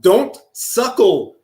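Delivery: slow, overly formal "Don't suckle"; mock-grave literal translation; deadpan literal reading. Shown as a demonstration. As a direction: read it slow like a solemn decree.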